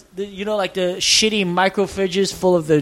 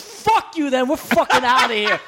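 mock-angry, higher pitched; retold defiance; 4 semitones higher than usual. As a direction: act out a friend storming off. Retold friend's angry exit.

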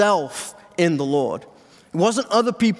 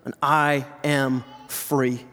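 soft affirmation; 4 semitones lower, slower than usual. Shown as a demonstration.

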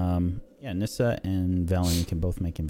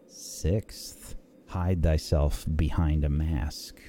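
solemn riddle reading; 3 semitones lower, much slower than usual. A narrator's reading. DM reads riddle on wall.

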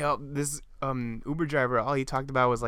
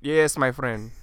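put-on Venezuelan accent; slower than usual. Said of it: "feels like I'm in the Uber".

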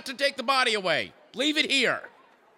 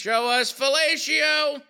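game show shout; 3 semitones higher, slower than usual. Acted. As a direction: boom it out to the board. Host booming the board.

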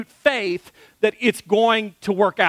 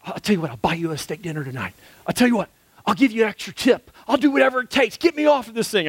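desperate bargaining; faster than usual. Retold or imitated. Frightened climber bribes his guide to get him off the rock, pleading. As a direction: beg your way off the cliff.

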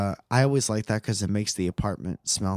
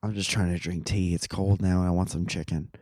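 sick voice; 4 semitones lower, 5 dB quieter than usual. Real, not acted. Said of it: "I'm sick".

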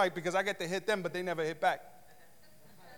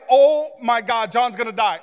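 mild mock panic; 7 dB louder than usual. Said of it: "going into panic mode".

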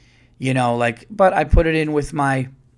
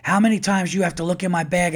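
imitated exasperated outburst, pitched up; higher-pitched retold indignation; mock freak-out; 5 semitones higher than usual. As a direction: mimic a fed-up traveler without shouting. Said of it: "she's, like, freaking out".

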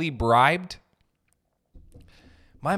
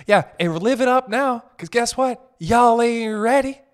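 warning yell; 7 semitones higher, 6 dB louder than usual. Real, not acted. Warning kids, voice rising.

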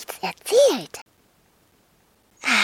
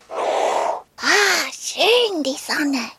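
lightly voiced dragon, pleased with the sun; a little dragon basking, sighing happily; a hint of a dragon voice, relaxed; contented dragon; much slower than usual. Dragon Rüdiger enjoys the sun.

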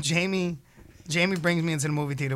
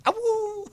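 wolf howl. Pretend.

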